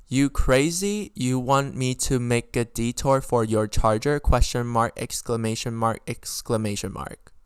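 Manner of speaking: slow, deliberate reading of an outraged text; emphatic text readout. Retold or imitated. Reading her friend's text word for word, slowly and emphatically. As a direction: read every word out slowly, punctuation included. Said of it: "read it out".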